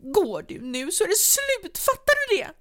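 very high and loud, climbing to a shriek; desperate ultimatum. A narrator's reading. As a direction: scream the threat as he leaves. Wife gives ultimatum.

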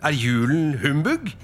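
startled exclamation. Acted. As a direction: exclaim it as a disbelieving question. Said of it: "utbrøt Fred". (forbløffet, lyst utbrudd)

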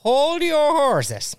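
high, very slow, stretched-out mock announcement; dramatic teaser. Teasing the audience with a mock dramatic pause. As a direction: drag each word out like a showman.

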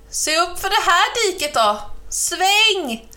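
high urgent calling; shouted warning. A narrator's reading. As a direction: yell directions in alarm. Crow warns before the ditch.

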